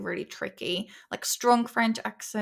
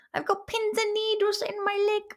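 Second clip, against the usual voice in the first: discomfort; 9 semitones higher, faster than usual. Real, not acted. Sudden numb leg complaint.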